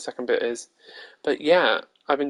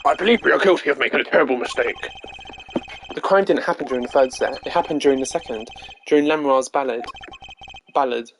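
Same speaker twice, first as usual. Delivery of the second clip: character voice acting. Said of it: "bear with my bad voice acting".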